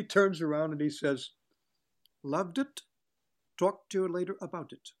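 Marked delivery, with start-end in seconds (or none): 2.2-4.9 breezy dismissive star, a bit higher; lightly voiced grand actor; imitating Billy DeWolf. Actor imitating DeWolf's breezy praise after the scene. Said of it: "that's the way he talked".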